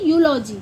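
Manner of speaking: यूलॉजी as "yoo-lo-jee"; teacher repeats यूलॉजी; model pronunciation of eulogy. Shown as a demonstration. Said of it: "क्या बोलेंगे?".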